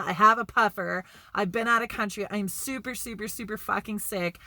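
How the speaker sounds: loud, desperate insisting; retold pleading. Sick friend pleading for a covid test, desperate. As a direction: beg them to listen. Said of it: "but he's like".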